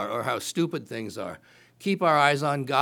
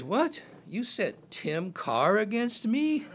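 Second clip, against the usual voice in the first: mocking giant; 6 semitones higher, 4 dB quieter, slower than usual. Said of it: "he goes".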